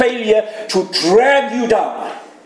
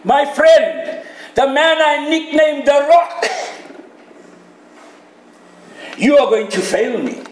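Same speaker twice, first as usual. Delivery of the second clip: earnest Jesus; 4 semitones higher than usual. Acted. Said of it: "Jesus says".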